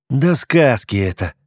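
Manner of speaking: protesting. A narrator's reading. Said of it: "запротестовал аналитик".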